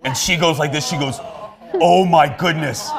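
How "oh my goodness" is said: mock shock. Boss's retold shocked reaction.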